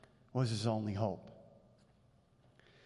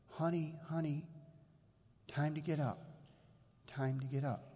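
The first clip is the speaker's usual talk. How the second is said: put-on softer, tender call to a sleeping child; gentle wake-up call; 6 dB quieter than usual. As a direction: coax the child awake gently. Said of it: "rustle them ever so gently".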